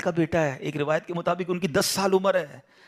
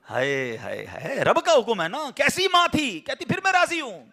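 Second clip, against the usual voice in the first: awed exclamation; 6 semitones higher than usual. Real, not acted. Preacher marvels at mother's faith.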